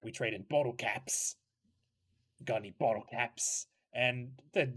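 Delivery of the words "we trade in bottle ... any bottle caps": lightly voiced sly trader kid; a hint of a smooth schemer; shady black market kid. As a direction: sell it like a shifty dealer. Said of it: "you hear the other kid go".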